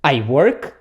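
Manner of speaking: "I work" with a rise on "work"; question intonation. Shown as a demonstration. Teacher showing a statement made question, "I work" rising. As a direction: lift the end of "I work" into a question. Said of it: "só muda a entonação da voz".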